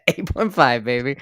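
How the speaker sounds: laughing through the words. Real, not acted. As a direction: giggle the score out. Laughing while repeating score.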